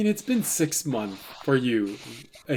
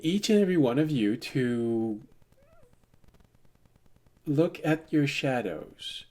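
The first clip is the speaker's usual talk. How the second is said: soft, halting public announcement; Sears; 5 dB quieter than usual. Acted. Announcing a problem to everyone, calm measured apology. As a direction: calmly address everyone over the intercom. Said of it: "you hear Sears say".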